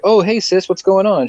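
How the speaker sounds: a light, mock-innocent uncle voice; breezy uncle greeting. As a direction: play it like nothing happened. Uncle casually greeting angry sister.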